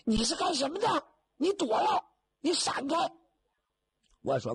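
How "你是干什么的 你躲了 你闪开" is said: put-on furious girl. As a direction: shove him away with your voice, outraged. Girl furious, trapped with stranger. (姑娘冲马云龙尖声怒喊让他闪开)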